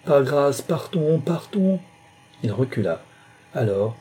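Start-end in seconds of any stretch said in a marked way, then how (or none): 0.0-0.6 heartbroken cry. A narrator's reading. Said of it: "s'écria-t-elle d'une voix navrée". 0.6-1.2 high, pleading cry; anguished plea to go; heartbroken plea. A narrator's reading. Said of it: "s'écria-t-elle d'une voix navrée". 1.2-1.8 even higher, desperate cry rising at the end; last anguished plea, climbing in pitch; rising heartbroken plea. A narrator's reading. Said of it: "s'écria-t-elle d'une voix navrée".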